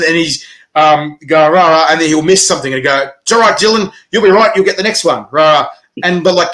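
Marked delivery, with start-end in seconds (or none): 1.5-1.9 mock cheer, a bit louder; imitated self-talk shout. Tennis player cheering himself on court, imitated shouting. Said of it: "like, shouting it". 3.2-5.7 raised, higher mock pep talk; imitated self-talk shout. Tennis player consoling himself after a miss, mock shouting. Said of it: "like, shouting it".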